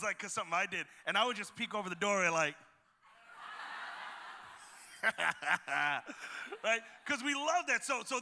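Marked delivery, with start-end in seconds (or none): 3.3-5.0 soft, breathy mock snicker; gloating snicker. Brother peeking at his sister getting punished, gloating snicker.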